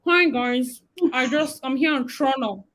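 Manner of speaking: clumsy attempt at a Canadian accent; badly faked Canadian accent. Shown as a demonstration. Vlogger greeting viewers from Toronto, badly faked Canadian accent. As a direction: put on Canadian vowels, not very well. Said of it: "I'm not doing it well".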